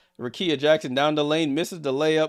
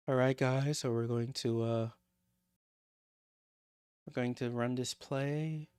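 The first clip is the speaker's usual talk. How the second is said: hushed coach impression; 7 dB quieter than usual. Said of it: "I'm gonna talk like that".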